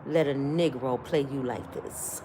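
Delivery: low, very soft, deliberate warning; covering the phone to confide a lesson; hushed aside. Retold or imitated. Brother covering the phone to warn his sibling, hushed and stern. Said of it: "He covered the phone up".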